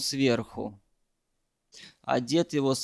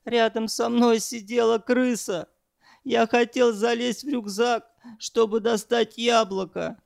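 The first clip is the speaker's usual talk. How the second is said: high, strained and shaky-edged, pitched way up; panicked rambling on a high voice; young man voiced high and frightened, louder; high breaking voice; 8 semitones higher, 4 dB louder than usual. A narrator's reading. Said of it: "срывающимся голосом на повышенных тонах заговорил".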